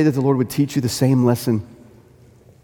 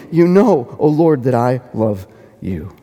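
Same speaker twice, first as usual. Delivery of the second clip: flat plain confession; slower than usual. Retold or imitated. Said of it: "says it flatly, plainly".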